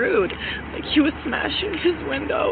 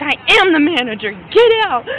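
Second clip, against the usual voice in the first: imitated yelling; 2 semitones higher, 7 dB louder than usual. Woman imitating the manager kicking her out, yelled. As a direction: throw the order out in a mock yell. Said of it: "And he was yelling".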